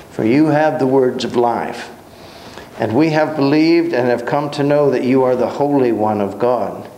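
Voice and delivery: measured reading of a Bible passage; steady formal reading voice; scripture reading. Acted. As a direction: read the passage aloud to the class. Reads scripture aloud to class.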